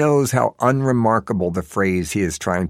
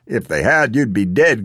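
cries out; 3 semitones higher, 5 dB louder than usual. A narrator's reading. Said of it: "cries out Bernie".

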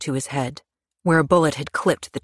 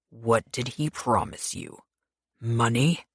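softer, slow, menacing question; quiet menace; 2 semitones lower, 4 dB quieter, slower than usual. Acted. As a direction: press her quietly and slowly. Pierce interrogates her with knife.

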